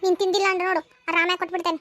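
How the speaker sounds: put-on childish tantrum over food; childlike pouting voice. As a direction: scold the dolls like a little girl at play. Childlike woman feeding dolls.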